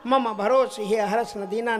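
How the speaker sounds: slow, measured verse recitation; scripture recitation. Acted. Preacher reciting verses on contentment to his congregation, measured recitation. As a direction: recite the lines in drawn-out metrical phrases.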